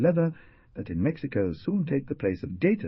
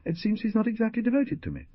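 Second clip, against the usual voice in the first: higher, quick, amused aside; smiling, playful remark; with a smile; faster than usual. A narrator's reading. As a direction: tease lightly with a smile. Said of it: "she added with a smile".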